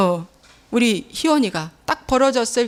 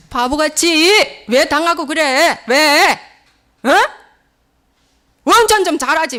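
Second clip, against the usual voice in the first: husband's scolding acted out, higher and louder; imitated angry husband, higher and louder; mock angry scolding; 6 semitones higher, 4 dB louder than usual. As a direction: scold her like an annoyed husband. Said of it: "화내고".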